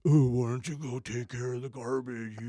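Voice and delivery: mimicking the wife's curt, annoyed tone; lightly voiced wife when she's mad. Husband mimics his angry wife nagging him about garbage. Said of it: "her voice is".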